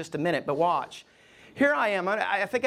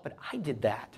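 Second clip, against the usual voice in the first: soft voice of God; 7 semitones lower, 7 dB quieter than usual. Retold or imitated. God's voice, fading.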